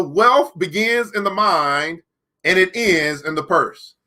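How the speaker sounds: slow, weighty reading of the quote. Shown as a demonstration. Reading the book's law to viewers, slowly. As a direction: let each word land, slowly.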